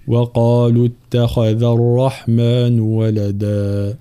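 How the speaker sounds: slow, drawn-out tajweed chant; Quran recitation. Acted. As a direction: recite each word slowly and melodically. Teacher recites. (تلاوة مجودة بطيئة)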